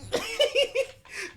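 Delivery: squealing high cackle; high-pitched laugh. Real, not acted. Cracks up after shouting.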